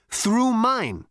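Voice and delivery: high, sarcastic and offhand; dry cocky Zaphod. A narrator's reading. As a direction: point it out with mock politeness.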